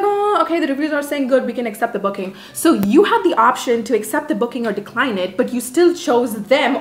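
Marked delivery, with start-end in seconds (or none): 0.0-2.3 high-pitched put-on "oh, okay" of a host checking reviews; imagined host approving. Hosts looking over a guest's reviews, high mock approval.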